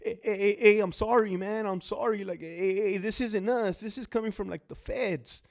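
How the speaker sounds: high, stammering mock whimper; imitating cowering guard. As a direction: mimic a scared guard begging. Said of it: "you could hear it in the C O's fucking voice".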